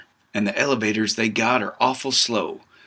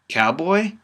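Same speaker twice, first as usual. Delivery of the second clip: calling up; 6 semitones higher than usual. A narrator's reading. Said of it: "a too familiar voice calls up".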